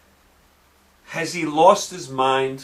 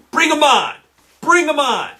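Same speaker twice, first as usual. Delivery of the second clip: defiant call-out; 8 semitones higher than usual. Real, not acted. Challenging TV pundits to debate.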